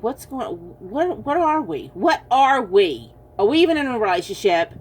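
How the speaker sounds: puzzled, asking herself what they are; mock bewildered partner, pitch jumping up at first; lightly acted confusion; confused inner voice. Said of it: "there's gonna be times you're thinking".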